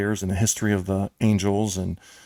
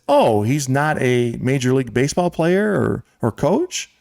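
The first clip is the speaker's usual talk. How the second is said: mock-innocent question, pitched up; sarcastic; 4 semitones higher than usual. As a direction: imitate a coach feigning surprise at the answer. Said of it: "he's being sarcastic".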